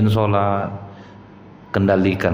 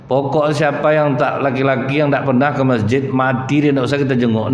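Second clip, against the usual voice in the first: harsh man; 5 semitones higher than usual. Retold or imitated. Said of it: "kalau bapak agak keras orangnya".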